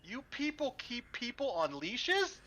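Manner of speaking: Leopold can't believe what he's seeing; appalled. Acted. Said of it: "Leopold looks appalled and goes".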